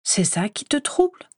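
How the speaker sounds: startled question jumping up high; a mother suddenly on edge, pitch shooting up; alarmed. A narrator's reading. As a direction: caught off guard, voice rising sharply. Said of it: "Elle se raidit brusquement".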